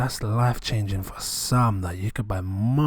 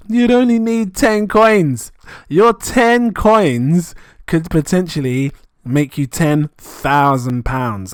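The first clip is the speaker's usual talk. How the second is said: excited; 5 semitones higher, 6 dB louder, much slower than usual. Real, not acted. Excited reveal of low coin count.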